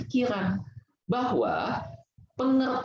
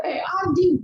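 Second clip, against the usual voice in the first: a sudden, high, louder jeer of eh, anjing; mock insult yell; 10 semitones higher, 4 dB louder, slower than usual. Speaker imitating someone insulting another, mock yelled insult. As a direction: toss out the insult like a schoolyard taunt.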